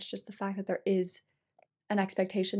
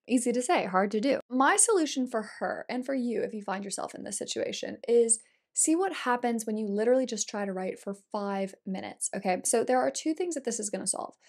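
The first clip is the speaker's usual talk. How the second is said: normal talking voice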